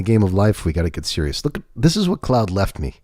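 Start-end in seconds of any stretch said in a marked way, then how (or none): 0.6-1.4 mock serious.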